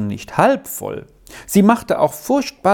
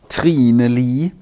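deliberate start; 3 semitones lower, 3 dB louder than usual. A narrator's reading. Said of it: "fing sie jetzt bedächtig an".

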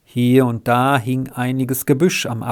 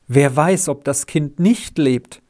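nearly beside himself. Acted. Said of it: "rief Herr Fehland fast außer sich".

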